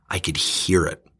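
hushed, breathy aside; whisper. Real, not acted. Recalling the silent phone call, hushed whisper. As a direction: whisper it as if the silence still hangs.

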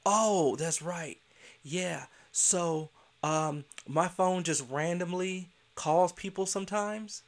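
slow, put-on innocent excuse; mock innocent teacher. Principal imitating teacher's lame excuse, slow and innocent. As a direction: play dumb like you just remembered.

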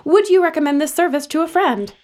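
bright, brisk scripted survey read; customer service voice. Acted. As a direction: rattle off the survey cheerfully.

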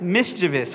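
"Mischievous" as "MIS-chuh-vus"; correct mischievous. Shown as a demonstration. Pastor repeating the lesson, correct mischievous. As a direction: stress the first of three syllables in "Mischievous". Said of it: "It's mischievous".

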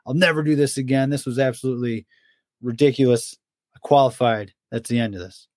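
imitating the Jackal griping after a marathon; imitating whiny friend. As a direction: whine it like a sore runner fed up after a marathon. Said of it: "And he's".

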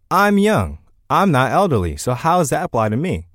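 lightly voiced skeptical listener; hint of a doubting young listener; imagined listener voice. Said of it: "you might be thinking to yourself".

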